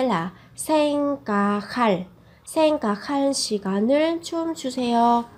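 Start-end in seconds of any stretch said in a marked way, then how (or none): 0.6-2.0 생각할 with ㄱ and ㅎ merged into a "kh"; linked aspirated consonant. Shown as a demonstration. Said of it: "đọc nối lên thành âm khờ". 2.5-3.3 생각할 joined into "saeng-ga-khal"; linked aspirated consonant. Shown as a demonstration. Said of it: "đọc nối lên thành âm khờ".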